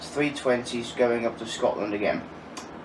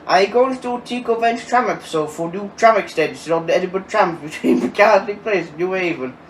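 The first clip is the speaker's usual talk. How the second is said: put-on Yorkshire accent, quick and higher; hammed-up Yorkshire reading, pitched up; 5 semitones higher, 3 dB louder, faster than usual. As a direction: rattle it off in a broad mock Yorkshire accent. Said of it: "students in Yorkshire accent".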